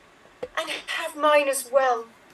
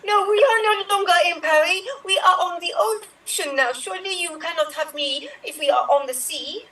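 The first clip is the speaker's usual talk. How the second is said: higher mock French accent; 4 semitones higher, faster than usual. Wife refusing the French captain in a higher mock French accent. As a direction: lay the French accent on thick. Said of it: "with French accents".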